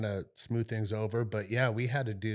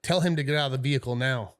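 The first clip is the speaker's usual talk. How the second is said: raised voice; 3 semitones higher, 6 dB louder than usual. Retold or imitated. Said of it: "he raises his voice".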